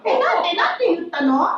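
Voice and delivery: high startled question; mock surprise; startled why. Wife asking husband why, high startled. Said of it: "retold reply".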